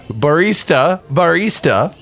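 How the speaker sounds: high, drawn-out villain call; villain calling the barista. Pretend. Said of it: "like that, 'cause that's how I talk as a villain".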